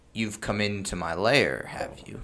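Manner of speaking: slow, self-assured dragon speech; unhurried confident dragon. Shown as a demonstration. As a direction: take your time, trailing off softly. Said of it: "confident and, like, in no hurry".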